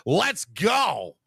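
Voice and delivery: excited rallying cry; hype cheer. Real, not acted. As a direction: pump up the crowd.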